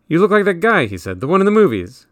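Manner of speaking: excited. A narrator's reading. Brother excitedly compares to movie star.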